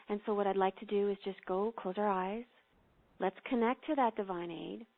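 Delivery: calm, unhurried meditation voice with long pauses; guided meditation. Acted. Host guides podcast listeners into prayer, calm meditation voice. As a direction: ease the listeners into prayer, gently.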